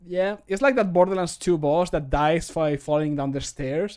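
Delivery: ordinary delivery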